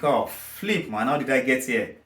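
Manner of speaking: dismayed thought. Retold or imitated. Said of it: "you think".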